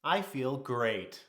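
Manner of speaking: wired and overconfident, dragging each word; hyped on caffeine. Retold or imitated. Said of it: "I'm like".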